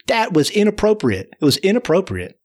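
gently reprimand, leaning on "inappropriate"; mild scolding. Retold or imitated. Storyteller reproving mice for stealing his car, mild scolding. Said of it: "I'm a little bit scolding the mice".

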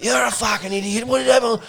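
high-pitched imitation of an exasperated partner; mock scolding. Imitating Jess telling off her battered boyfriend, mock scolding. Girlfriend scolds him in story.

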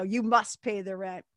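slow, lightly voiced menacing villain. Cartoon villain demanding rent, lightly voiced and slow. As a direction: lean on it like a mustached cartoon baddie. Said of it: "the villain would go".

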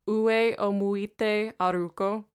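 A song title in careful Japanese, each syllable even; careful Japanese pronunciation. Shown as a demonstration. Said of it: "I'm going to attempt the proper pronunciation here".

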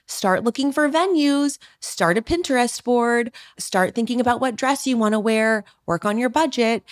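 mock the article's bossy list; mocking read-out. Engaged woman mocking wedding articles, perky. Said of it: "this article says".

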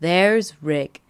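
slow, airy mock nonchalance; casual, so normal. Ilsa greeting her old love Rick, feigned casualness. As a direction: act as if nothing is wrong. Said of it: "she's acting like it's so normal".

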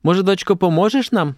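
a playful motherly question, mildly acted; joking. A narrator's reading. Mother asks her daughter to help, gently joking. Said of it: "жартуючи".

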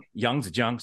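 "Yangtze Jiang" as Yahng-dzuh Jyahng; correct Chinese pronunciation. Shown as a demonstration. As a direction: model "Yangtze Jiang" with soft A and J sound. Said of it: "is how you say it".

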